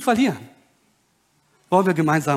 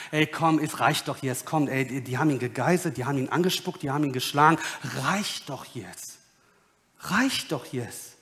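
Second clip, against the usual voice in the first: low, soft voice urging an end; subdued appeal; 6 semitones lower, 6 dB quieter than usual. Acted. Crowd hoped to relent over beaten Jesus, quiet and low. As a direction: appeal quietly for mercy, slowing at the close.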